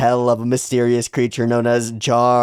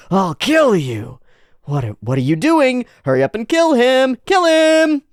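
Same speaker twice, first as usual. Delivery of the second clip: berserk rage; 12 semitones higher, 5 dB louder than usual. Acted. Berserk Agni and witch shouting.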